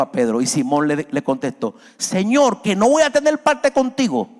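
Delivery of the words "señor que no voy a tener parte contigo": higher, louder, eager plea to be washed all over; eager pleading. Acted. Pedro begs the Lord, louder and higher, eagerly pleading. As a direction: beg the Lord, rising and urgent.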